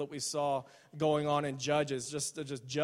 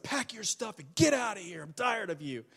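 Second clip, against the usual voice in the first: mock screaming; 4 semitones higher than usual. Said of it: "He just starts screaming and stuff".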